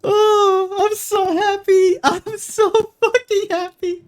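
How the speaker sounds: high, tearful laughing voice; overwhelmed with joy, crying it out; real sobs of relief; happy crying. Real, not acted. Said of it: "I'm fucking crying".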